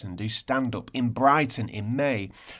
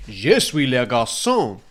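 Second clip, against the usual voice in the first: lightly voiced little boy, louder; child in French advert; 8 dB louder than usual. Host retelling Muzzy advert, boy voice a touch louder. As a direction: say it like a boy in a language video. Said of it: "two kids on the advert that went".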